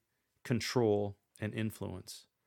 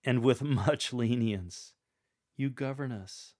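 tender pastoral. Shown as a demonstration. Coach continuing the verse, tender and pastoral. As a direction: lilt up gently on "you govern us". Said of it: "Continue that same style for".

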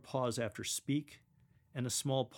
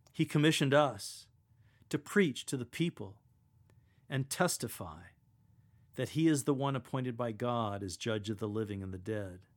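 fervent reading. Shown as a demonstration. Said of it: "Continue your fervor".

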